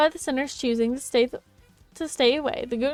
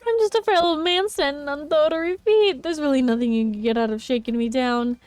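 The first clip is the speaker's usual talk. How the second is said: put-on very old man; 3 semitones higher, 3 dB louder than usual. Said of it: "Pleading with the overly loud voice".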